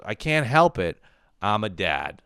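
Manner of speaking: a loud mock dad pleading he can't help it; mock dad excuse. To his son, a loud mock dad excuse. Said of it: "the next thing he goes".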